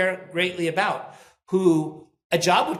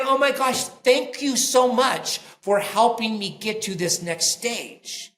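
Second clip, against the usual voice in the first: higher-pitched imitation of effusive gratitude; gushing thanks; 5 semitones higher, slower than usual. Former employee writing to thank his old boss, gushing. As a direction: retell a grateful message with emphatic, drawn-out thanks. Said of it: "he's writing me saying".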